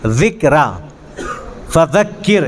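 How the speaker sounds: "ذکرہ", "فذکر" with a voiced th; careful tongue-tip dhāl in "ذکرہ" and "فذکر"; dhāl demonstration. Shown as a demonstration. Teacher models the letter for students, careful dhāl in "ذکرہ" and "فذکر". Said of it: "زبان کی نوک".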